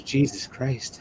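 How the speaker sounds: drawn out, very slow and stunned; imitating his sister, slow and shocked. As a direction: let each word hang in disbelief. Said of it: "she just goes".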